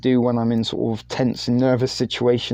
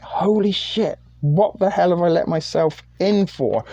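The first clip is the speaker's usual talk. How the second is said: high-pitched retold panic; retold freak-out; 5 semitones higher than usual. Streamer to himself after the backlash, mildly panicked. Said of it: "I was freaking out".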